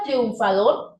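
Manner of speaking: "triunfador" in three pieces, triun, fa, dor; split into syllables. Shown as a demonstration. Teacher showing the division, "triunfador" in three separate syllables. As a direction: say the last "triunfador" slowly with gaps, triun, fa, dor. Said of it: "se divide como".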